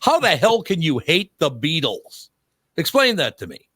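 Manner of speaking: indignant Englishman, lightly done; British accent. Retold or imitated. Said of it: "With a British accent".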